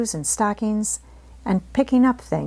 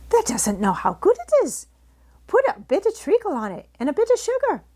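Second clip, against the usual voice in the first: lively Yorkshire maid, pitched up; chatty country girl, lightly voiced; Martha's Yorkshire voice; 11 semitones higher than usual. A narrator's reading. Housemaid gossiping to Mary, lightly voiced Yorkshire. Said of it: "said Martha".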